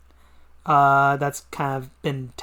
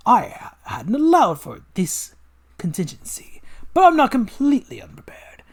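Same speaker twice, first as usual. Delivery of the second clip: villain voice; 3 semitones higher, 5 dB louder than usual. Acted. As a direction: savour every word like a mad scientist.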